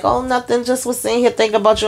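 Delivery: high, fast, mock-sweet reply; a lightly voiced coy girlfriend brushing it off; sugary fake innocence. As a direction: imitate her laying it on sweetly. Andy sweetly answering Robin.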